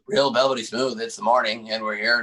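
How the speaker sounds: lightly imitated low morning DJ; a hint of a silky radio voice; velvety smooth radio host. Imitating a co-host's morning radio bit, lightly velvety smooth. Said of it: "Steve's impression of velvety smooth".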